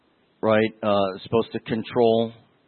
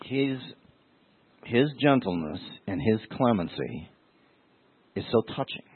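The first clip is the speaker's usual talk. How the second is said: softer, choked up, fighting back tears; tearful; 4 dB quieter than usual. Real, not acted. Pastor moved to tears telling the congregation of Jesus' gentleness, tearful and softer. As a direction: let the emotion catch in the throat. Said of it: "why am I crying?".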